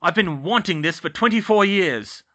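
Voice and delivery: loud, cranky wheezing voice; wheezing caretaker. A narrator's reading. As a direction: wheeze it out with relish. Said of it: "Filch wheezed behind her".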